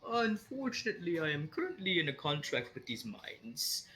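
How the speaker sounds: a slightly mad floating eye; unhinged creature voice. Acted.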